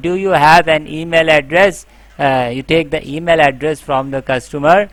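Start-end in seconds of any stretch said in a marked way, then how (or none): 0.1-1.9 agent question. Shown as a demonstration. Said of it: "So, uh".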